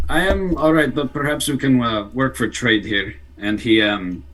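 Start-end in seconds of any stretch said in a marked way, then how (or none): 0.1-3.1 put-on weak Russian accent, pitched up; a poor Russian accent, half-hearted. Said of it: "It's a very poor Russian accent".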